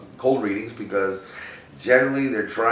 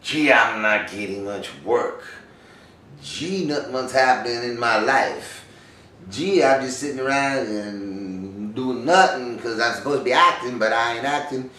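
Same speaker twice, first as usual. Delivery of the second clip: wondering actor. Acted. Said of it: "and you wonder, like".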